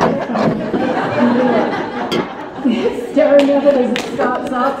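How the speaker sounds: slow, laughing sing-song; mock sing-song. Mimicking mum watching the tape, slow and sing-song. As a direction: lilt it like a dreamy mother.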